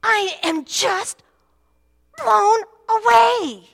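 put-on high, slow, loud child's wonder, I am just blown away; little girl amazed. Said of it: "and she goes".

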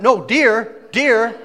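imitated wife pressing her warning; insistent wife. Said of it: "she's hitting me going".

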